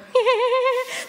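high, loud imitated giggle; kids' giggle. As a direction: mimic kids giggling in the back seat. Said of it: "my kids would be in the back of the car going".

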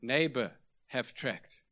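slow, halting imitation of broken Korean English. Korean evangelist to a man at the door, broken English. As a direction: ask word by word as a Korean beginner in English. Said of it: "his one broken English sentence".

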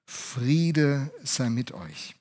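drawn-out, soft peace greeting; gentle blessing, very slow. Retold or imitated. Jesus blesses his joyful disciples, very slow and gentle. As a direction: let each word of peace linger. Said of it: "Und dann sagt er zu seinen Jüngern".

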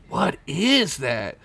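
slow hushed awe; awed wonder. Acted. Squeak staring at the gem, slow and awed. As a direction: draw it out in wonder.

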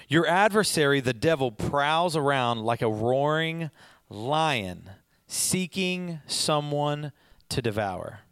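slow, deliberate reading of the verse; scripture reading. Acted. Preacher reading First Peter to the congregation, slow and deliberate. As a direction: read each phrase slowly and weightily.

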